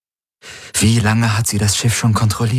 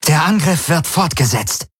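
high, urgent command, a touch breathless; pitched-up, breathless commander; 8 semitones higher than usual. A narrator's reading. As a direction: order the attack on, slightly out of breath. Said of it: "Ylanas Stimme atemlos über die Comms".

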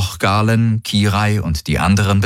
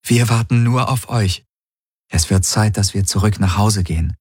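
gentle. Acted. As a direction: reassure the crewmate gently. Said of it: "sagte sie sanft". (sanft und beruhigend)

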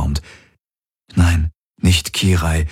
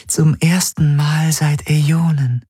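higher whisper of wonder; awed whisper; 9 semitones higher than usual. A narrator's reading. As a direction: breathe it out in awe. Spirit confides relief.

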